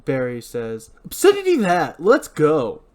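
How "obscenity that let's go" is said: loud, high, impatient order; raised, heated voice; angry outburst. Acted. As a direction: swear it off and push to leave. Barry swears and orders them off.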